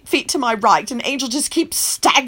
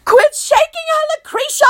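yelling. Acted. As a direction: yell to make her stop. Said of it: "I yell".

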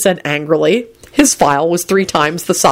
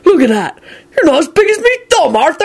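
amused, higher teasing voice; chuckling; 11 semitones higher than usual. A narrator's reading. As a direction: tease with a chuckle behind it. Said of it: "Hagrid chuckled".

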